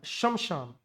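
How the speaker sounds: शमशान said slowly with the half श clear, low and soft; quiet model of शमशान; correct pronunciation. Shown as a demonstration. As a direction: stress the halant श in शमशान. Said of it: "श हलंत होता है".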